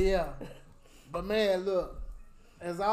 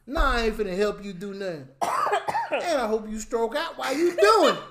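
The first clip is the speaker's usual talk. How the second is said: petty; 4 dB louder than usual. Retold or imitated. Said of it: "So I was being petty".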